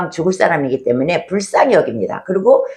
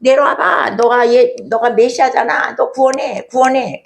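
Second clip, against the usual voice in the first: higher, jeering taunt at the man on the cross; mocking taunt; 4 semitones higher than usual. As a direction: sneer it up at him. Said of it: "계속 그러는 것입니다".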